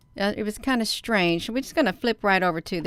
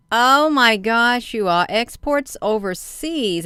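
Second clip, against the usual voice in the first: surprised; 3 semitones higher than usual. Real, not acted. Shocked at article.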